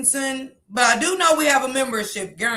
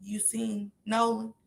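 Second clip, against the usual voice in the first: mock caller; 10 dB quieter, slower than usual. Mimicking callers asking around.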